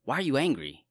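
sharp scolding question, pitch jumping up; accusing challenge. Shown as a demonstration. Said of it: "you could read that like".

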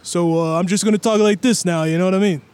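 New York street voice; lightly voiced New York guy; Tracy Morgan impression. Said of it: "going more for Tracy Morgan".

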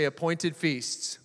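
Appointed feasts drawn out slowly for the crowd; call and response. Shown as a demonstration. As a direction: lead the crowd, very slow. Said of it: "Everybody say".

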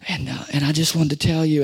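imitated whispered confession, low and soft; whispering. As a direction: confess in a hushed stage whisper. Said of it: "she was whispering to her husband".

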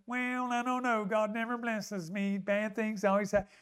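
mock woe-is-me grumble; mopey self-pity. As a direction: moan it softly, feeling sorry for yourself. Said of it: "mope and go into a form of self-pity".

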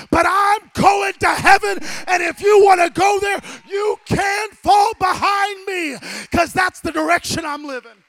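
full-force preaching. Real, not acted. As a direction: shout it to the congregation.

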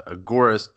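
"agorist" as uh-GOR-ist; preferred pronunciation. Shown as a demonstration. Guest explaining from Greek agora, "agorist" as uh-GOR-ist. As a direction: stress the middle GOR of "agorist". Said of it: "I, I just say".

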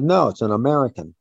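put-on mildly forceful, like a child correcting an adult; forceful insistence. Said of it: "he said it with such force in his voice".

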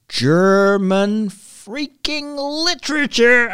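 high, drawn-out exasperation; exasperated venting. Real, not acted. Podcaster venting about German literature from school, exasperated. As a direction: stretch every word out in high-pitched loathing.

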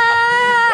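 laughing until tears come; high squealing laugh. Real, not acted. Laughing hard at clip. (หัวเราะจนน้ำตาไหล)

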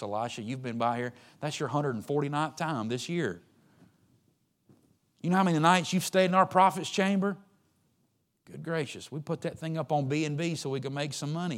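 fed-up, loud scolding host; exasperated hostess. Acted.

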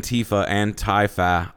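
"Antifa, Antifa" as an-TEE-fa, an-TIE-fa; slowly vary "Antifa, Antifa", first tee, then tie; shifting pronunciation. Retold or imitated. Host teases his worry about the word, "Antifa, Antifa" as tee, then tie. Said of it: "I don't know where the accent goes".

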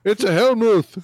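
high, loud "Hellmouth" as "hell-mooth"; put-on high voice, "Hellmouth" with a long oo; mock pronunciation. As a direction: exclaim "Hellmouth" to rhyme with tooth. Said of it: "that's not how it's pronounced".

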